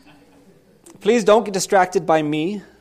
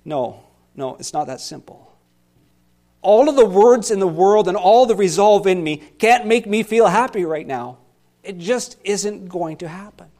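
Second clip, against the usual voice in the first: deflated relapse; 5 dB louder than usual. Acted. Pastor sliding back into despair in the psalm, deflated. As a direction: give up again, it's not that simple. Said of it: "a dramatic reading of this psalm".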